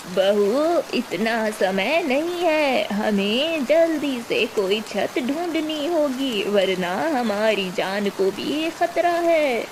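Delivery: a lightly voiced old woman, slow and urgent; worried old mother-in-law. Old mother-in-law warning her bahu, slow and anxious. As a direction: urge the daughter-in-law, slowly and anxiously.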